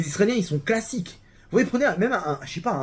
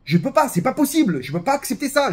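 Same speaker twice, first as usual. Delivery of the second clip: higher-pitched protest, put on; acted revolt; 6 semitones higher than usual. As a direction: refuse it like a mock rebel. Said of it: "j'ai ce sentiment de révolte en moi".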